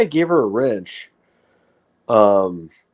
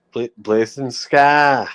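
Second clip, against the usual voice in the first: put-on slow, drawn-out New England accent; 2 semitones higher, slower than usual. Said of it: "with my New England accent".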